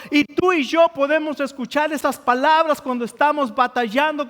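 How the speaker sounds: pressing, emphatic pulpit voice; impassioned preaching. Real, not acted. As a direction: preach it with mounting urgency. Exhorts the congregation.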